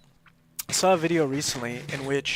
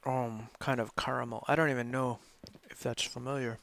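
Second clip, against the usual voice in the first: talking while chewing; eating candy while talking; mouth full; 6 dB quieter than usual. Real, not acted. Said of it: "I just get tired eating this stuff".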